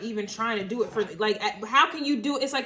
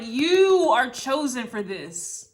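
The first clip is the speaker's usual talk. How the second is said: slow angel proclamation; 5 dB louder, slower than usual. Retold or imitated. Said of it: "it's like".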